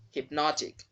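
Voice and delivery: "hypnotic" as "hip-NOT-ik"; short open O in stressed "NOT" of "hypnotic"; correct pronunciation. Shown as a demonstration. Teacher showing how hypnosis changes, correct pronunciation. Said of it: "sound of the letters there will also change".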